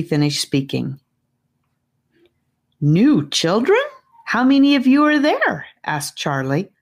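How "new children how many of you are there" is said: astounded. Acted. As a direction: gape at the news of another child. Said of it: "truly astounded".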